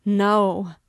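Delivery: high, very loud shrill refusal; piercing, sharp scream of refusal; sharp, shrill cry. A narrator's reading. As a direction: shriek it out in desperate protest. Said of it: "in a sharp, shrill voice".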